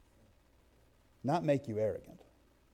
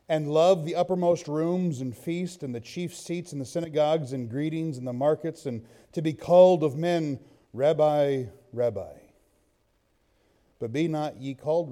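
scripture reading. Real, not acted. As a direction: read the verses to the congregation with weight. Reads Matthew 23 aloud.

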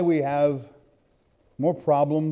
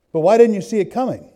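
higher, louder, faster challenge; fervent challenge; 7 semitones higher, 6 dB louder, faster than usual. Acted. Preacher challenging the congregation, higher and louder. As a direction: press them hard with the question.

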